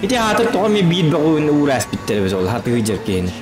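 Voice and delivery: normal talking voice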